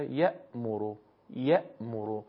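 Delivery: "یأمرو" with an abrupt glottal catch after the first syllable; sharp hamza. Shown as a demonstration. Teacher demonstrating hamza's strike in "یأمرو", sharp catch.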